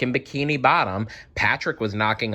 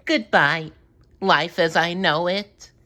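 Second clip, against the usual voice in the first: sad goodbye; 8 semitones higher than usual. A narrator's reading. SpongeBob's sad farewell.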